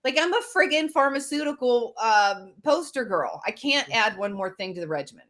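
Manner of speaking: high-pitched mock outrage; exasperated patient mocking herself; incredulous rant. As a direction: act flabbergasted. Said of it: "And I'm like".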